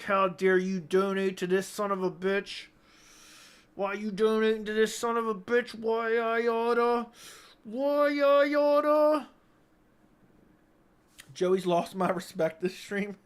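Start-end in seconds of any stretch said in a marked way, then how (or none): 0.0-9.3 mock furious rant, rising higher and slower; hammed-up fist-shaking fury; angry Davis. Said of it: "Davis right now is balling up his fist like".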